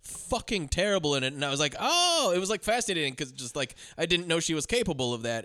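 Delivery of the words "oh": high, drawn-out "oh" of discovery; a rising gasp of realization, retold; drawn-out fascinated oh. Moviegoer retelling own reaction to a bad performance, fascinated.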